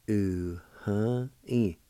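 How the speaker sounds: "U-huh-e." joined into one smooth word with a falling end; whole-word demo. Shown as a demonstration. Teacher modelling the full word "U-huh-e." for students. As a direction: blend "U-huh-e." together with the pitch falling. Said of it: "It's pronounced like this".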